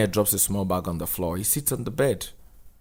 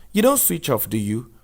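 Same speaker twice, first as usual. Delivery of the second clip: teasing Lena; 4 semitones higher than usual. Acted. Lena teasing Daniel about his buzzing phone, higher voice. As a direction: poke at him playfully.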